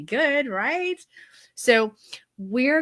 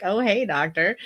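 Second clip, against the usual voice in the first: lightly flirty sing-song hello; cute, flirty. Retold or imitated. Client greets super cute doctor on phone, lightly flirty. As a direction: play a hint of coy greeting. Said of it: "very cute and very flirty".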